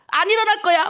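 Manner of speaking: high, whiny-style protest; mock refusal.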